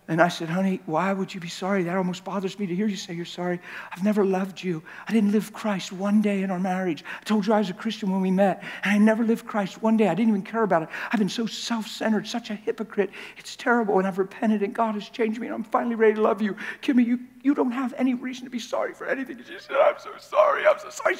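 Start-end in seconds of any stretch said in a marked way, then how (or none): 0.5-19.4 soft, hushed and tender; tender to wife. Retold or imitated. Pastor recalls speaking to wife. 19.8-20.7 high, crying apology; imitating wife sobbing. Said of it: "We're bawling". 20.7-21.2 high, tearful repeat; imitating wife sobbing. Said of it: "We're bawling".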